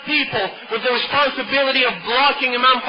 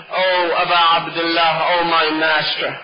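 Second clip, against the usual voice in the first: sorrowful address; 5 semitones lower than usual. Retold or imitated. Weary brother pleads to master.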